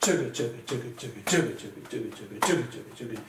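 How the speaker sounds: rhythmic "chugga" chant, first of each group accented; stronger on beat one. Shown as a demonstration. Teacher demonstrates the pulse with "chugga", accenting beat one. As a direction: chug along evenly, hitting the first "chugga" of each group. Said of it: "a little bit stronger on beat one".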